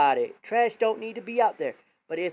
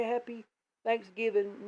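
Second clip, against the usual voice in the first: lifted, sing-song holiday greeting, a touch higher; sweet friendly greeting; 4 semitones higher, 4 dB quieter than usual. Retold or imitated. Kind neighbour greeting him online, sweet sing-song lift. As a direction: chirp it like a kind neighbour wishing well. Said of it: "They were being nice to you, trying to say".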